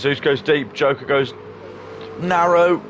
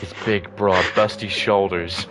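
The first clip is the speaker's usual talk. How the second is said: sultry narrator; 3 semitones lower, slower than usual. Retold or imitated. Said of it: "you hear them and they're like".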